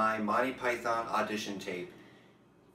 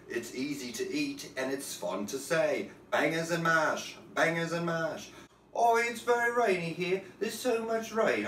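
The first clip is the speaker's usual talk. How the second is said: much higher, chirpy English housewife fussing about bangers and rain; high-voiced British housewife; 6 semitones higher than usual. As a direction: play a shrill-free but very high English lady, sing-song.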